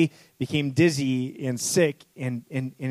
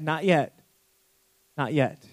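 tender but unmoved; gentle potter. Acted. Potter answering the clay gently and calmly. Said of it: "with compassion, looked in and said".

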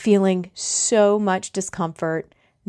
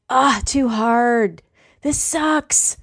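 slow, whining complaint, pitched up a touch; whiny brain voice; 3 semitones higher, much slower than usual. Retold or imitated. The brain whining at you during a long yoga plank, slow whiny moan. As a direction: moan like a quitter mid-plank. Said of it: "Your brain is going to start whining at you".

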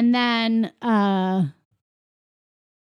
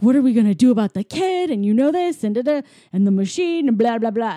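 quick, raised, louder mock panic; hurried retold rant; 5 dB louder, faster than usual. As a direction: rattle it off fast, trailing into blah-blahs. Acting partner's panicked rant in retelling.

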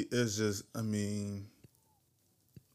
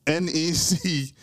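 slow spelling out; 2 semitones higher, much slower than usual. Shown as a demonstration. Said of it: "It's U N".

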